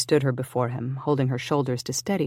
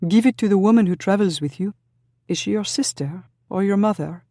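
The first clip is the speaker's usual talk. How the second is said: much higher and louder, calling back; called over her shoulder; 7 semitones higher, 6 dB louder than usual. Acted. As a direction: call back to him while running off. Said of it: "called over her shoulder".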